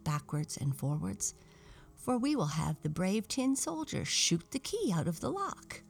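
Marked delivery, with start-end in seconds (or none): 1.9-5.8 higher-pitched doll explaining a plan; lightly voiced doll, pitched up; Dutch doll character. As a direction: propose it in a raised doll voice.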